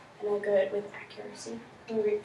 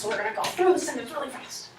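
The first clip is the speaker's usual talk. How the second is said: rattled off fast; quick demo of fast reading; speedster pace; 3 semitones higher, faster than usual. Shown as a demonstration. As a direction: race through the sentence, no expression. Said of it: "we'll go like a speedster".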